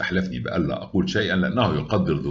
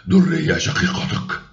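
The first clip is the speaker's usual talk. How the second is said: shocked; 10 semitones higher, 4 dB louder, slower than usual. A narrator's reading. Shocked that Daria is his sister.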